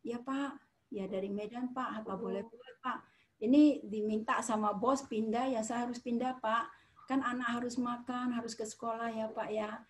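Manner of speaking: soft, deferential reply; meek explanation. Acted. Newcomer from Medan answering a client, softly and meekly. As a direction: explain yourself softly and humbly.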